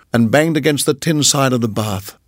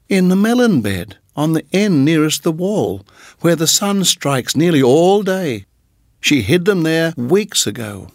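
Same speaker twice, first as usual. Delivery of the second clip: higher, excited chirpy bird; little bird voice; 4 semitones higher than usual. Acted. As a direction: chatter proudly like a small bird. Darzee voice.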